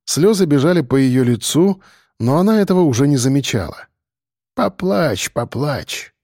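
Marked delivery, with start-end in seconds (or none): 4.6-6.1 мягко, затихая; утешь тихонько; ласково. A narrator's reading. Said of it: "приговаривал дед, ласково". (ласковое приговаривание, угасая)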